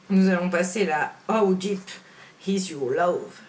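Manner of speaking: song title said with a mild English accent; a touch of English accent on the title. Shown as a demonstration. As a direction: give the title a light English twang. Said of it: "vous avez remarqué cet accent anglais".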